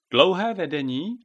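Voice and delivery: high, loud hen squawk; clucking question. A narrator's reading. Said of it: "kdákla Běta".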